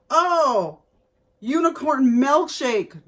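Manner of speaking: delighted first read of the label; excited reading. Real, not acted. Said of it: "That's what it says".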